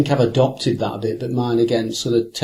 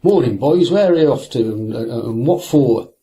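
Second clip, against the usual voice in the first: mock passerby greeting; 3 dB louder than usual. Hiker hailing two anglers on the hill, lightly voiced. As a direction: call out a cheery hello, half-imitated. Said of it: "I can't do his accent".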